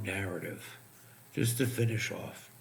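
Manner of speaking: strained, fading voice; losing his voice. Real, not acted. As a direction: voice giving out. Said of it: "'cause I'm losing my voice".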